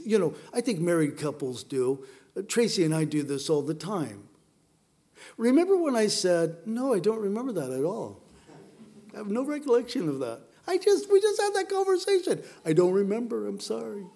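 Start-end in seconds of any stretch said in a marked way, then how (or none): 5.4-14.1 mock spouse quarrel. Married couple bickering acted out.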